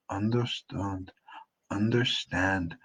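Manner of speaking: slow, careful "understand"; careful pronunciation. Shown as a demonstration. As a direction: sound out each syllable of "understand", slowly. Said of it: "is pronounced slightly differently".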